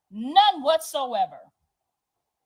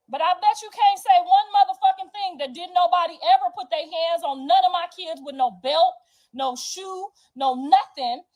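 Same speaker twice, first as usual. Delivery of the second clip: loud, raised, heated challenge; real angry challenge; 5 semitones higher, 5 dB louder than usual. Real, not acted. Mother defending how she raised her kids, loud angry challenge. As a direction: dare her to say otherwise, loudly.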